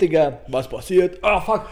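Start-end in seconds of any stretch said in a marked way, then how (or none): 1.2-1.7 wincing through a stomach cramp; strained with a sudden cramp. Real, not acted. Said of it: "ich hab einen Krampf im Bauch".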